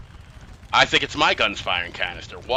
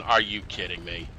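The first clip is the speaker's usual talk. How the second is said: resigned disbelief. Retold or imitated. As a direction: let it drop, weary and resigned. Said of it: "shaking my head going".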